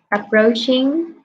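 "approaching" said slowly, stretched; slow model word. Shown as a demonstration. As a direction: draw out "approaching" for the student. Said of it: "teacher models words".

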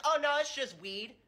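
put-on casual teen coworker. Coworker voiced in the story.

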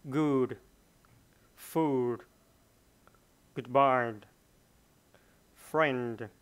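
loud, isolated words with falling tone; word-list model reading. Shown as a demonstration. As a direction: read each word out firmly for learners. Teacher repeats the word list. (đọc mẫu từng từ, to và rõ)

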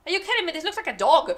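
can't believe this picture, laughing at it; incredulous. Real, not acted. Scoffing at a dragon drawing that looks like a dog, loud and laughing.

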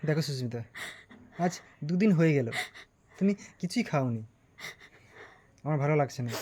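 low, subdued coaxing; quiet, worried appeal; gentle concern. Acted. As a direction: plead softly with someone refusing food. Acted worried coaxing after quarrel.

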